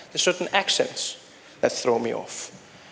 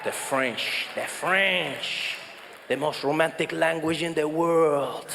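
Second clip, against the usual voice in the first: put-on French accent; 2 semitones lower, slower than usual. Swooning over French accent as romantic.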